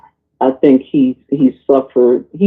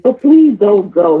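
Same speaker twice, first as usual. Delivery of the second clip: higher, slow whiny please don't go; mock pleading; 6 semitones higher, slower than usual. Son clinging to his father's waist, mock pleading. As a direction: beg like a clingy child, hammed-up. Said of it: "he would hold his father's waist".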